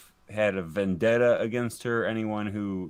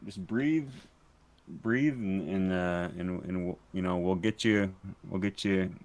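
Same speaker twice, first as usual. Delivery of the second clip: soothing reassurance; 4 semitones lower than usual. Acted. Interrogator calming a panicking captive, soothing. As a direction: talk him down gently.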